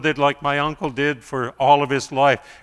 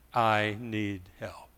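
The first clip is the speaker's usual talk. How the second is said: helpless plea; 4 semitones lower, 10 dB quieter, much slower than usual. Retold or imitated. Helpless mother after stroke.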